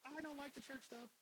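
high, slow, smug voice of his younger self; mocking younger self. Preacher mocking his judgmental younger self, smugly. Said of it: "I was like".

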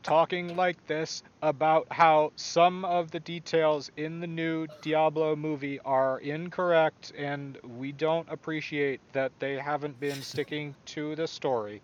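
flat droning reviewer voice; monotone voice. Retold or imitated. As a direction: drone it like a nitpicking YouTuber. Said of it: "in his monotone voice".

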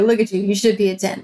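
snide, dismissive nurse voice; real snotty. Retold or imitated. Nurse sneering at patient's pain, snotty. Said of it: "like, real snotty".

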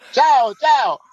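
high, bouncy imitated Italian goodbye; mock-cheery Italian send-off; friendly farewell. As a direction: call it out high like waving Italian cops. Cops waving goodbye as he leaves.

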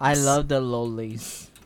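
slow, lips kept apart; lips not touching. Shown as a demonstration. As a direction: say it without closing lips. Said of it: "Come on, do it, Will".

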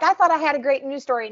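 high, quick mock exasperation; hurried, high exasperated quote. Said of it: "Muppet Newsman gets exasperated very easily".

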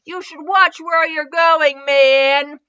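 mild annoyed yell. A narrator's reading. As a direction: call out in annoyance, stretching the words. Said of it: "Naruto yelled at him".

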